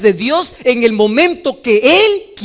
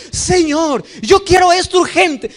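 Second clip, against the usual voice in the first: a higher, urgent pleading to God; impatient plea; 6 semitones higher than usual. Retold or imitated. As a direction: beg for it now like a demanding believer. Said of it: "Y vamos a Dios y decimos". (súplica impaciente y más aguda)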